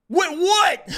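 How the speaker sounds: high-pitched baffled question; incredulous retort. Retold or imitated. Streamer retorting to the man who accused him, incredulous retort. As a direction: throw it back in sheer disbelief.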